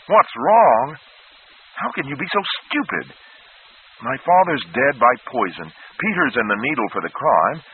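put-on a frightened boy yelling at his advisor; hysterical outburst. A narrator's reading. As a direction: rage through tears of panic. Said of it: "boy lashes out at Flagg".

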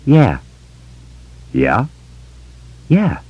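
a hint of a boy answering a stranger; kid's voice. A narrator's reading. Boy's voice in dialogue.

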